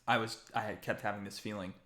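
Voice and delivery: soft, earnest craftsman; Cicero. Acted. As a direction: confide a sense of destiny, very quietly. Voices Cicero to the player.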